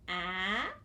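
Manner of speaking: "A" as a held short a; isolated sound. Shown as a demonstration. Teacher reviews middle sound, "A" held. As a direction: draw out "A" as in nap. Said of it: "was the middle sound".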